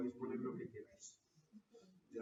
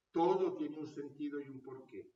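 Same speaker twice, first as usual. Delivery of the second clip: mock reassurance; 3 semitones higher, 11 dB louder than usual. A preacher mocking what people tell sufferers, hammed-up loud. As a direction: boom out the empty comfort. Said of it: "le decimos".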